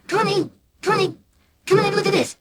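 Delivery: high fast call; dad calling out. Acted. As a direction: call mum in, alarmed. Dad shouting for mum.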